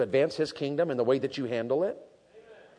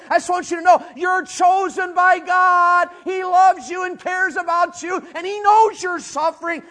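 much higher, loud fervent cry; preaching shout; 11 semitones higher, 8 dB louder than usual. Retold or imitated. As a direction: shout the promise to the scattered believers. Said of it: "What he's saying is".

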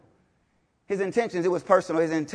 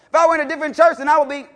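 lightly voiced whiny excuse, higher and louder; mock excuse; 7 semitones higher, 6 dB louder, much faster than usual. Preacher imitating an excuse-maker, mock whine. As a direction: mimic a believer making excuses.

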